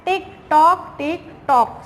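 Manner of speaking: sing-song tick-tock; clock ticking imitation. Shown as a demonstration. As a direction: tick like a clock, rising then falling. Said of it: "clock का sound क्या होता है".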